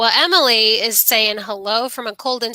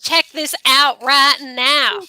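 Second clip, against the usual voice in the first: 1 Southern twang. Pretend. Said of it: "say that with a Southern twang".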